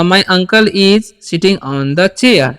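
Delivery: stretched word by word; very slow classroom dictation; very slow model sentence. Shown as a demonstration. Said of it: "teacher models an English sentence".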